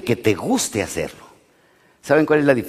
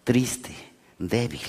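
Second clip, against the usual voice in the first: mocking taunt; 4 dB quieter than usual. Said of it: "Ángel en venganza me dice".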